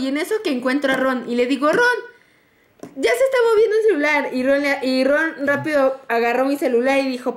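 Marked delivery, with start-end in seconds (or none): 1.7-4.3 higher, quick re-enacted alert; urgent retelling. Telling Ron the phone is moving, urgent and quick. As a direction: act out hurried news for a friend.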